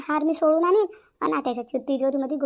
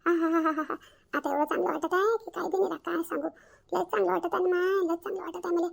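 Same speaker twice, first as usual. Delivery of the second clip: relieved sigh; 3 semitones higher than usual. Acted. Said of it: "आता थोडं शांत वाटत आहे बापा".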